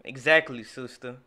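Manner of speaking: yelling exactly at full volume; loud excited shout. Real, not acted. Shouting agreement at rap.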